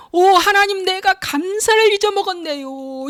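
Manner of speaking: high, earnest mock prayer; praying voice. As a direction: lift the voice like a sudden grateful prayer. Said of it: "이렇게 기도하는 거야".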